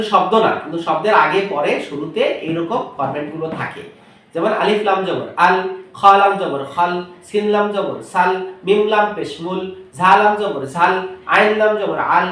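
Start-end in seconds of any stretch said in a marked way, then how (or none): 4.3-12.3 slow, letter by letter spelling out each syllable; slow teacher spelling drill. Shown as a demonstration. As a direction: spell it out slowly for children. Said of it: "এভাবে আপনি একটা একটা পড়ান".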